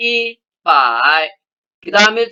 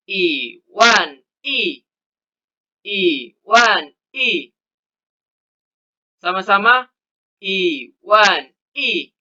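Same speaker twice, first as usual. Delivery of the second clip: slow model reading; slower than usual. Shown as a demonstration.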